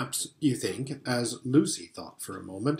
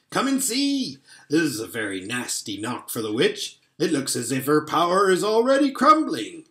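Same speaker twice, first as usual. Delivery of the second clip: delighted; 2 semitones higher than usual. Acted. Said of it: "almost dancing with delight".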